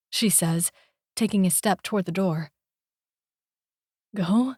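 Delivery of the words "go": broken. Acted. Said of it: "the word coming out broken".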